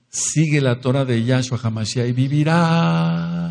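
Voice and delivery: a preacher's ringing call, held long and even; proclaiming shout. Shown as a demonstration. Preacher calling to the congregation, demonstrating his shout. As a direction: cry it out to the whole congregation. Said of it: "yo grito así".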